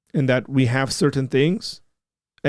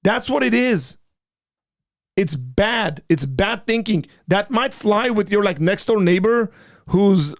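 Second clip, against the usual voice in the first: higher, pressing, fed-up scolding; heated rant; 4 semitones higher than usual. Real, not acted. Co-host tells the skeptic his argument is crap, heated and higher. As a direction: throw the bad argument out, hammer every line. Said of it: "see, now you're being nice".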